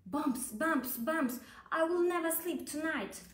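owl shouting at the bumps in his bed, mildly hammed-up; mock shout. A narrator's reading. Owl shouting at the bumps in bed, mock alarm. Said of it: "shouted Owl".

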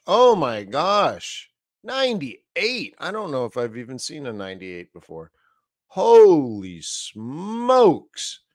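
slow, drawn-out astonishment; stunned at a ninety-eight reading; amazed. Real, not acted. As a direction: stretch the words in disbelief. Shock at the sentiment reading.

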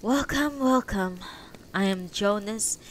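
a hint of a weak elderly host; lightly voiced old man. Jonas voiced in story.

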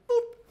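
mock card beep. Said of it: "And the card goes".

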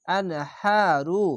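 very slow intoned আনহারু with a long drawn vowel; sung Arabic recitation; Quran recitation. Shown as a demonstration. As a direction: stretch the ha in আনহারু one alif long, slowly. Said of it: "খাড়া জবর এক আলিফ টেনে পড়বেন".

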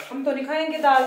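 mother mimicking her fussy children refusing dal, mock whiny; mocking fussy kids. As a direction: imitate the children throwing a tantrum over dal. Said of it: "ऐसे नखरे मारते हैं ना".

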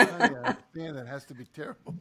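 exaggerated soothing line through laughter; mock sympathy, laughing. Husband mocking the sympathetic reply he should give his wife, laughing. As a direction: ham up the caring husband while chuckling. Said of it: "instead of saying".

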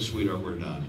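soft low whisper into her ear; quiet resigned whisper. Retold or imitated. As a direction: hush it, close to her ear. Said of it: "I whispered in Emma's ear".

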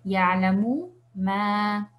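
Ya'lamu ma lento, pausa antes de ma; lectura normal. Shown as a demonstration. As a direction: separa mu y ma en Ya'lamu ma. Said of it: "se va a leer normal". (Ya'lamu ma, cada m con su vocal)

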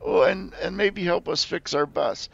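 very high, loud desperate begging; squeaky creature pleading, hands clasped. Acted. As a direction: jump up and down begging for help.

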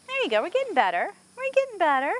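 high, sing-song encouragement; encouraging a horse. Real, not acted. Trainer tells horse it's getting better, high encouragement. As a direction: lift the pitch to cheer a horse on.

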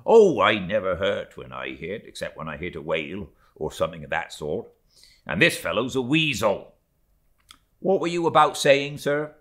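mate brushing off the first mate, brisk; breezy mate. Acted. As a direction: shrug off the rebuke. Stubb answers Starbuck.

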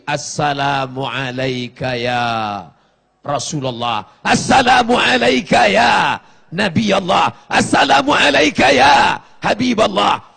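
salam penuh hormat. Retold or imitated. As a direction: start hushed, build to a ringing call. Greeting the Prophet, rising to shout. (salam yang makin lantang dan penuh hormat)

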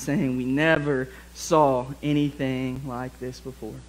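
measured Bible reading to the congregation; scripture reading. Acted. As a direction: read the passage aloud, steady and clear. Reads Mark two aloud.

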